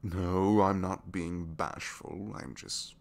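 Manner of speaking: flustered denial. Acted.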